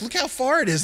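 high, loud warning; alarmed shout. Retold or imitated. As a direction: yell up at a kid about to jump. Adults shout warning up tree.

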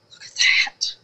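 whispered awe at "that"; hushed wonder before the outburst. Real, not acted. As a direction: breathe "Look at that" in awe. Hushed then loud marvel.

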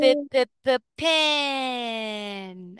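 P- p- p- p- tapped out, then pin said whole; sounding out p. Shown as a demonstration. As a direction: drill the p sound before saying pin. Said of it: "teacher sounds out first letter".

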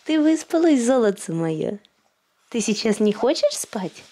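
sing-song questions to an infant. Real, not acted. Mother cooing to baby.

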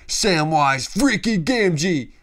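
slow, loud, emphatic praise; hyped. Real, not acted. Fan praising Sam to viewers, slow and loud. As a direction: drag each word out in awe.

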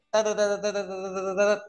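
rapid-fire run of identical syllables; fast talking. Shown as a demonstration. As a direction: rattle the syllables off without a gap. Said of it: "ngomongnya bisa cepet".

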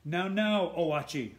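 a witch calmly calling off her beast. A narrator's reading. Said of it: "said the witch".

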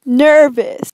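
"Nervous" modelled clearly, with its R; teaching "Nervous", NER-vus with a clear R; correct pronunciation. Shown as a demonstration. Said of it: "Say it with me".

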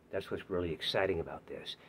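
unvoiced whisper; whispering his plea to the casting team. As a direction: lean in and whisper the secret. Confiding pitch to producers.

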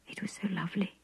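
a hushed moan of pleasure; soft moan. A narrator's reading. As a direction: sigh it out, spent. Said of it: "she moaned".

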